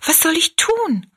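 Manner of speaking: high, helpless cry; utterly dismayed. A narrator's reading. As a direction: wail the question in dismay. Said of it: "rief Rosalie ganz bestürzt aus".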